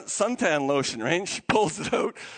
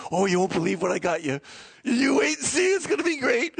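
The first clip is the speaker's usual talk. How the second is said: excited gift-giver. Retold or imitated. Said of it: "some people get so excited".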